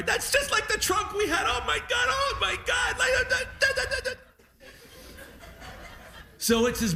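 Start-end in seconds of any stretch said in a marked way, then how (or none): 0.0-4.1 put-on high, choked-up teary gush over the old trunk; dad crying. Son imitating his weeping dad at the pier, high and tearful. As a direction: imitate dad welling up, voice pitched way up. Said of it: "everything made him cry".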